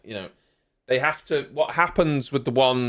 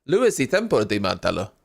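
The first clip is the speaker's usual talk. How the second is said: fake Italian accent; 4 semitones lower, faster than usual. Shown as a demonstration. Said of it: "Luis y Tempo de Martello".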